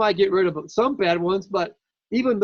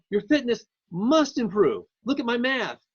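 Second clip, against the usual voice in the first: lightly put-on Jamaican accent, higher; a playful hint of a Jamaican accent; 5 semitones higher than usual. Lecturer voicing Fisher to his mother, mock Jamaican accent. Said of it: "I'll use my Jamaican accent".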